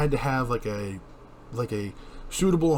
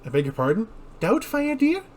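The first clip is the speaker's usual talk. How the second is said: put-on Scottish old woman; 4 semitones higher than usual. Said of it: "Scottish-sounding old woman".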